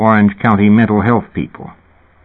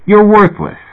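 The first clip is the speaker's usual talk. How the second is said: much higher, louder jab; bullying shout; 12 semitones higher, 4 dB louder than usual. A narrator's reading. Maurice bullying Fat, higher loud shout. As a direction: spit the insult out loud.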